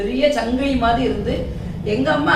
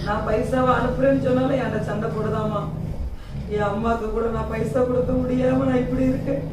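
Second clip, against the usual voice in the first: tearful; 5 dB quieter than usual. Acted. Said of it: "அழாதையா, அழாத".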